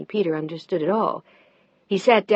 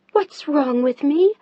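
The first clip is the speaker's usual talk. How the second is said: high, loud, slow incredulous echo; slow high indignant echo; 7 semitones higher, 6 dB louder, slower than usual. Acted. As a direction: throw it back, rising. Mel echoing his question.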